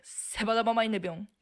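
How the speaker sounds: quick run-together Tsugaru-ben phrase; Tsugaru-ben dialect. Shown as a demonstration. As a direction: show off Tsugaru-ben as one long word. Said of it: "Tsugaru-ben, どうやって言うの?".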